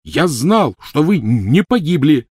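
high, loud barked retort; barking. Acted. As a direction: bark it over her. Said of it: "рявкнул Рон".

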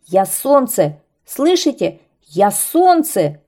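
loud insistent shout, slowing at the end; kite shouting. Acted. Kite shouts at the laughing birds, loud and insistent. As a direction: demand to be believed. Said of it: "кричал змей".

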